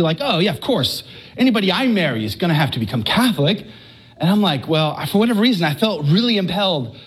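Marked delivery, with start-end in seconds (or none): 0.2-3.6 quick, offhand, as if it were nothing; casual. Retold or imitated. Wife casually tells husband he must convert, offhand quick. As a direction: toss it off lightly and fast. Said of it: "she just said it so casually".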